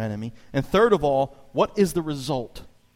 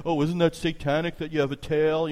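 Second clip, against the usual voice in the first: mocking coworker; 3 semitones higher than usual. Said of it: "He'd make fun of me".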